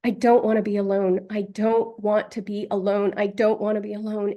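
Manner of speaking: sobbing "I don't wanna be alone"; sobbing plea. Real, not acted. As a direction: beg not to be left alone through real sobs. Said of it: "and then a full-on sob".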